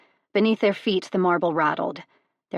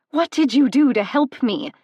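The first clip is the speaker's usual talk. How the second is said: much higher, louder furious question; angry demand; 6 semitones higher, 9 dB louder than usual. Acted. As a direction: challenge him in fury. Angry confrontation continues.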